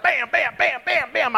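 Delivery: quick run of punched bams; rapid-fire rattling. Retold or imitated. Nervous evangelist cruising through the Ten Commandments, rapid-fire. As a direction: imitate racing through a list. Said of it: "I just talk faster".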